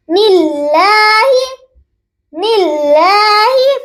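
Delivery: نلاہی with a thin lam held one alif long; thin lam stretched. Shown as a demonstration. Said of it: "ایک الف کے برابر کھینچیں". (نلاہی میں پتلا لام ایک الف کھینچیں)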